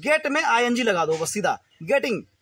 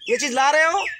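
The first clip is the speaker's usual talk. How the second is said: higher-pitched checking question, mock enquiry; acted questioner; 5 semitones higher, 4 dB louder than usual. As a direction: play someone checking on an errand, pitched up. Acted boss checking on task. (काम के बारे में पूछने का अभिनय, ऊँची आवाज़ में)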